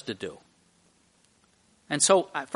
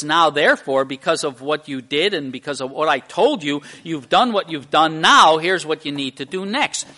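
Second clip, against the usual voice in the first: louder, firm instruction to the disciples; commanding Jesus; 6 dB louder than usual. Retold or imitated. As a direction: lay down the next orders with authority. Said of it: "And then he says".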